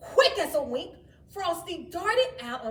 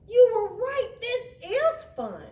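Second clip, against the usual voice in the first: loud cheerful call across the pond; calling out happily; 10 semitones higher, 10 dB louder than usual. Acted. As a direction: shout your surprise that it's easy. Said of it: "he called".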